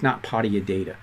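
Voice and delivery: real Boston accent slipping out. Real, not acted. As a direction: say it with dropped Boston r's. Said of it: "I sounded very Boston-like in that accent".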